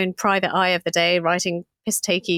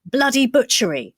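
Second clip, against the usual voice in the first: mock yell, pitched up and louder; half-acted cry of outrage from the crowd; retold yell; 6 semitones higher, 4 dB louder than usual. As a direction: call it out like a furious rabble-rouser. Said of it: "he starts yelling at the top of his voice".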